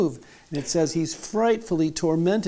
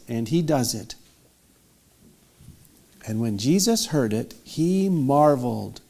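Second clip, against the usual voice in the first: scripture reading. A narrator's reading. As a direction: read it out solemnly, stretching key phrases. Reads the scripture story aloud.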